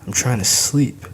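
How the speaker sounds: put-on high, loud child's whine; whiny little girl. A narrator's reading. Daughter whining at her dad to let her sleep. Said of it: "Ayana whines".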